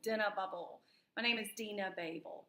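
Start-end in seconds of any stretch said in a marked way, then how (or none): 1.2-2.4 her name in a light Southern accent. Shown as a demonstration. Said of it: "just, you know, in the Southern accent".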